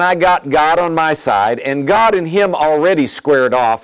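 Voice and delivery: preacher exulting over a beaten devil; bold declaration. Real, not acted. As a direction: proclaim it with confidence.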